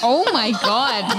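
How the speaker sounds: ordinary talk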